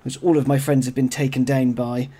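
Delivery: rough, gravelly chest cold voice; hoarse from a chest cold. Real, not acted. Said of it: "why I sound a little bit more gravelly than usual".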